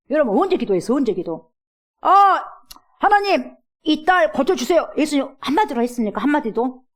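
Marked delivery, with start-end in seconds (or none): 2.0-4.9 higher, louder slow cry; crying prayer. Retold or imitated. Mother crying out to God for her daughter, loud.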